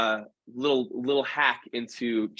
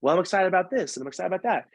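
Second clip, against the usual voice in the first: higher, chattering voice listing what she's excited about; dance partner lists what excites her, in a higher put-on voice; imitating Kelly; 5 semitones higher, faster than usual. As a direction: bubble over, voiced up high. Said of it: "She's like".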